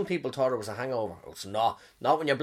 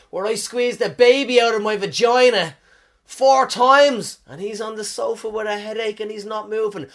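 indignant rant; 6 semitones higher, 8 dB louder than usual. Retold or imitated. Ranting as the mothers.

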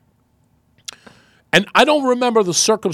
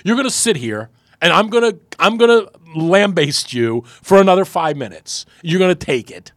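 loud, higher mock dressing-down; retold roasting; 4 semitones higher, 5 dB louder than usual. Host imitating the GM lambasting him, emphatic scolding. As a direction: imitate a boss who won't let it drop. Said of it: "totally roasted me".

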